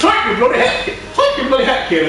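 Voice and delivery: high mock Irish, laughing; Irish accent. Gamer repeating Shanks's dub line, mock Irish accent. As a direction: parody a cartoon character in exaggerated Irish. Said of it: "an Irish accent".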